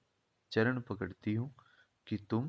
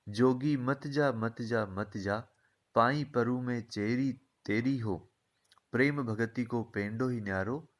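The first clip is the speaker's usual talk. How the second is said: poem recitation. Acted. Teacher recites Meera's poem.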